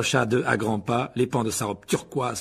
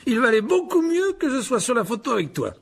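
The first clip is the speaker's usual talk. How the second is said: raised, patronizing reassurance; paternal; 12 semitones higher, 5 dB louder than usual. Acted. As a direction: explain it with fatherly self-importance. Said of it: "dit Lockhart d'un ton paternel". (ton paternel et condescendant)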